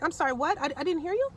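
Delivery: high-pitched feigned innocence; playing it off. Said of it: "Or whatever else I'm playing it off".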